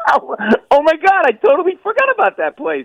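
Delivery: high and bright with sudden recognition; oh my God, that place, rising excitement; excited recognition. Real, not acted. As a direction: burst out, suddenly remembering. Sudden memory of old store.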